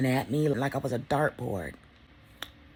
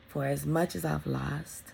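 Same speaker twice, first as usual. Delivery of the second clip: slow sincere reflection; 3 dB quieter, slower than usual. Real, not acted. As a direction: let each word sink, deeply sincere. Reflecting on loss this year.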